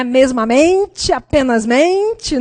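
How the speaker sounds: slow, mocking drawl on "Mesmamente" and "apenasmente"; mocking made-up words. Shown as a demonstration. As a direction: stretch out "Mesmamente, apenasmente" as a joke. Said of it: "Tem gente que escreve".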